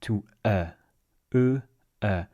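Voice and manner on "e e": E said two ways, northern then southern; southern vowel shift. Shown as a demonstration. Teacher demonstrates southern French vowel change, careful. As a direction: glide from one E to the other. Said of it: "it goes from E to E".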